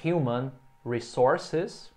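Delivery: "human resources" drawn out very slowly; teacher modelling English; very slow model phrase. Shown as a demonstration. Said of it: "significa recursos humanos em inglês".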